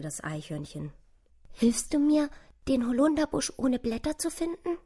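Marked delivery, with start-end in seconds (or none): 1.5-4.8 high, thin, pleading mouse voice; bittende kleine Maus. A narrator's reading. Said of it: "bat die kleine Maus". (hoch und zart bittend, als Maus)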